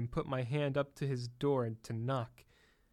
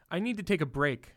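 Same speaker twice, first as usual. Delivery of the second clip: higher, louder demand; 4 semitones higher, 4 dB louder than usual. Acted. Bellboy demanding a break from Helen, louder demand. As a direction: insist on a break. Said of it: "I demanded from Helen".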